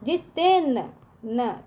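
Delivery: जितेन slowly, lingering on the न; stretched half-letter demo. Shown as a demonstration. Teacher shows where the half letter sounds, जितेन slow and held. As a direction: draw out the n ending जितेन. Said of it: "न का उच्चार निकल रहा है".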